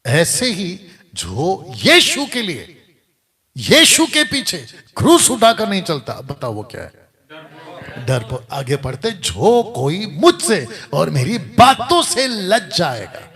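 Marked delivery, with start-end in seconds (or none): 0.1-6.2 loud, slow rising preacher's cry; preaching shout. Real, not acted. 9.1-13.3 slow, loud proclaimed scripture; loud reading. Real, not acted. Reads verse at full force.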